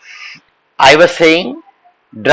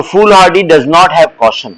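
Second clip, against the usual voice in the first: unhurried teaching repeat; walk them through it slowly; slow model sentence; much slower than usual. Shown as a demonstration. Teacher reminding students of the does-not analogy, slowly. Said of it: "मैंने आपको does not की analogy सिखाई ना".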